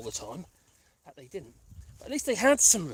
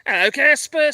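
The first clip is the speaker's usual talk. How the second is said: pet talk; 5 semitones higher, 8 dB louder than usual. Real, not acted. Greeting pets.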